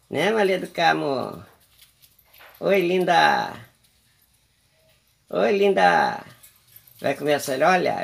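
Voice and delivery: high, sing-song coaxing of a pet bird; pet baby talk. Acted. Owner coaxing her pet bird Maria do Carmo to eat, cooing. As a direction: coo sweetly at the little bird.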